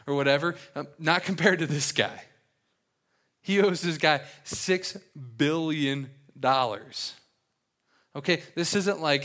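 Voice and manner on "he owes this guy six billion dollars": "owes" drawn out and leaned on, slow and heavy; slow, weighty "He owes this guy six billion dollars", hitting "owes"; stress on owes. Real, not acted. Pastor hammering the debt size to the congregation, slow and heavy on "owes".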